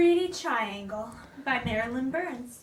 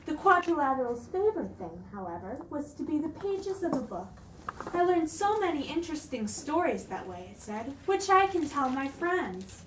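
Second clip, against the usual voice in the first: storybook narration for the kingdom; story reading. Acted. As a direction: read it like story time.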